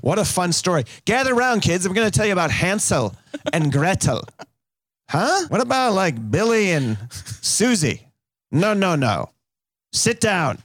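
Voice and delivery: put-on storyteller to kids. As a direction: tell it like a kindergarten teacher.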